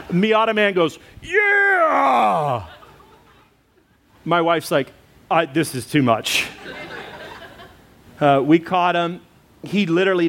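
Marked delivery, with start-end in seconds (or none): 1.2-2.7 high laughing shout; laughing cheer. Retold or imitated. Miata Man celebrating the catch, laughing shout. 5.3-6.5 laughing disbelief. Retold or imitated. Wife reacts, laughing.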